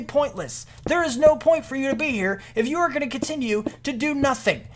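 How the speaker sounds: loud, high, half-laughing rant; blowing up. Retold or imitated. Telling off the bossy manager at work, loud half-laughing rant. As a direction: let it all out at the manager with a laugh breaking in. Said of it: "I blew up at the lady".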